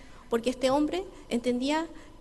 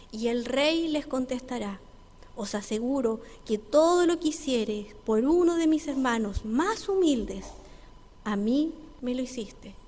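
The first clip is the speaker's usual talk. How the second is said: lento y más fuerte, proclamando; lectura bíblica solemne; 4 dB louder, slower than usual. Acted. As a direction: lee las palabras del rey con peso. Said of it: "cuando dice". (el predicador cita a Jesús en Mateo, solemne y lento)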